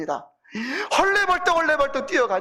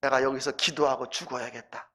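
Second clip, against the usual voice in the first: low resolve; 8 semitones lower, 6 dB quieter than usual. Retold or imitated. Father's resolve to die praying.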